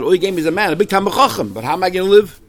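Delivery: acted complaint. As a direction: voice a daughter's mock protest to her father. Daughter protesting to her father, acted.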